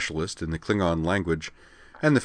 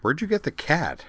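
puzzled tone; 9 semitones higher than usual. Acted. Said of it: "she added in a puzzled tone".

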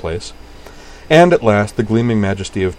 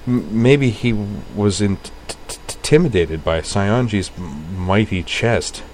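stammering tease. Acted. Kate teasing friends about Sayonji, stammering with a smile. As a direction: stammer through it with a grin, slowly.

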